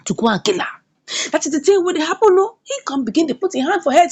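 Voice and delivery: usual speaking voice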